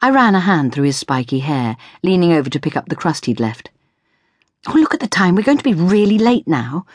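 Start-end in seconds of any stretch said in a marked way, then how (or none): 4.7-6.8 talking with a mouthful; mouth full. Acted. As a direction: speak through a mouthful of toast. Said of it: "I said with my mouth full".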